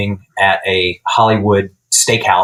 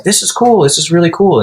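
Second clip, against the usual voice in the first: imitating a guitarist; 8 semitones higher than usual. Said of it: "he's like".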